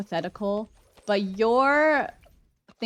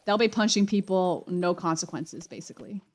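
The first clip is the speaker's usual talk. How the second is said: talking while crunching food; chewing crunchy snacks mid-sentence; crunching chips. Real, not acted. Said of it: "Can you hear my crunching?".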